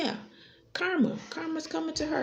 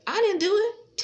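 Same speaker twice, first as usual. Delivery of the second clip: mock denial; 9 semitones higher, 4 dB louder than usual. Mocking the accused's denial.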